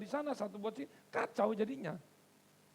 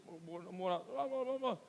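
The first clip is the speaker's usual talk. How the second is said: imitated prophesying; much slower than usual. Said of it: "Ibu Ucit".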